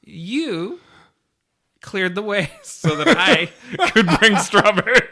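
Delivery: high, squeaky with laughter; laughing through words. Real, not acted. Podcaster correcting co-host's strawberry joke, helpless high laughter. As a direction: barely get it out for laughing.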